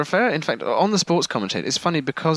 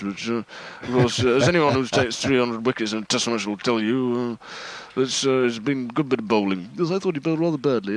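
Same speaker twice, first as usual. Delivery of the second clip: cricket summariser impression. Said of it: "it's like you'll say".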